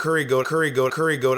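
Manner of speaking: put-on West Indian accent on curry goat. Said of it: "with a full-on West Indian accent".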